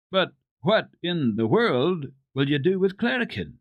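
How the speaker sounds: high, alarmed cry; alarmed exclaim. Acted. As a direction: voice a startled, worried grandmamma. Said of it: "she exclaimed in alarm".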